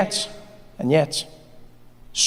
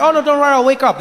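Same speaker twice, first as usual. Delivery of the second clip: put-on boyfriend voice; 8 semitones higher, 3 dB louder, faster than usual. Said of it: "He's like".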